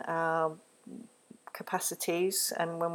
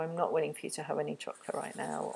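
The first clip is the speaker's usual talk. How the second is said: calm loving limit; faster than usual. Shown as a demonstration.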